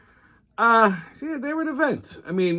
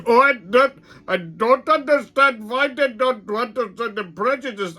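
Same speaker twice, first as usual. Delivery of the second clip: high, louder, slow slurring whine; mock whiny drunk; 9 semitones higher, 3 dB louder than usual. Drunk customer whines to the teller about being cut off, high and slow. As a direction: play the drunk as a wounded whiner.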